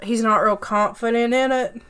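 muddled mock country accent; imitating an unsure, chewed-up Southern accent; Ben Affleck. Shown as a demonstration. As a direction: talk out of the side of the mouth. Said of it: "it just kinda sounds kinda muddled like this".

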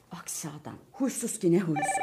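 breathed under her breath, unvoiced; whispered grumble. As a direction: complain so he can't hear. Wife grumbles behind husband's back. (fısıltıyla söylenme)

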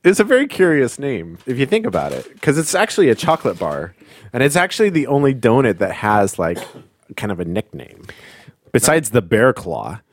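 eating while talking; mouth full. Real, not acted. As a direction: talk through a mouthful of donut. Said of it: "I'm eating a donut right now".

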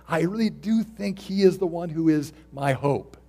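full-force sermon climax; rising preacher's fervor. Real, not acted. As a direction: push it out with conviction.

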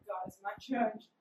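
low, soft deadpan; mock solemn mutter. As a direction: drop it low and quiet like a verdict. Joking reply to parents.

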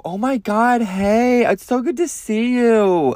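high, squealy mock greeting; gushing fake friend. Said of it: "this is exactly how they were, they were talking".

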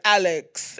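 loud, falling call of "Alex"; mock soap husband confronting his wife; Brad, stern husband. Husband to his cheating wife, mock stern reproach. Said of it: "dialogue between Alex and her husband".

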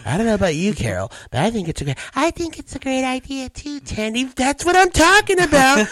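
smugless Trump voice rising to high whine; Tandy. Shown as a demonstration. Comic morphing Trump into sitcom character, rising high. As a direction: push the pitch up into excitable, loud protest. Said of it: "bring it up a little bit".

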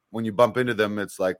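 normal talking voice

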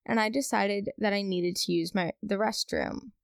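lively, measured read-aloud with lifts on key words; story read-aloud. Acted. Reading a viewer's restroom horror story to the audience, story read-aloud.

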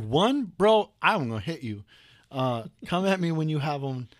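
playful indignant yell at a friend; mock outrage. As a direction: act offended, half joking.

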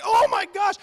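a shocked cartoon chipmunk squeak; chipmunk impression. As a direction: play the startled chipmunk, high and bright. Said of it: "I'm gonna do my best chipmunk impression".

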